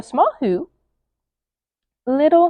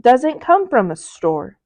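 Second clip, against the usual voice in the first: a tender dawning realization; thoughtful Grinch; slower than usual. Acted. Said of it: "he thought".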